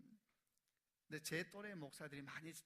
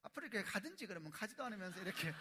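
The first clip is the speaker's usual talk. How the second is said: a touch of a preachy husband nagging his wife, a bit higher; mock lecturing the wife, louder and higher; imitating his own nagging; 5 semitones higher, 5 dB louder than usual. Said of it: "저희 아내가 말해요".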